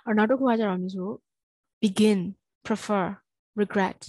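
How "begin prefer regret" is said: "begin", "prefer", "regret" with weight on the last syllable; be-GIN, pre-FER, re-GRET, one at a time; second-syllable stress. Shown as a demonstration. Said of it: "stress on second syllable".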